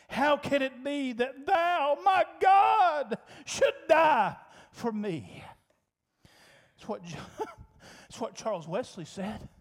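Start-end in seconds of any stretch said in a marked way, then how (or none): 0.1-5.4 proclaimed hymn line. Real, not acted. Preacher proclaiming hymn lyric.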